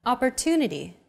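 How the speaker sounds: Opportunity, stressed and lengthened on the third syllable. Shown as a demonstration. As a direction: lean on "tu" in Opportunity. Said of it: "pronounced longer than all other".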